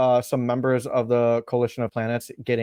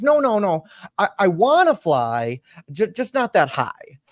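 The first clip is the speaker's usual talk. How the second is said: put-on little girl voice; 6 semitones higher than usual. Tara voiced.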